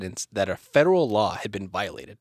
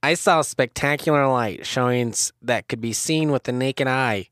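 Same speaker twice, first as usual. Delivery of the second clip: put-on quote voice; 2 semitones higher, 3 dB louder than usual. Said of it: "Try that again".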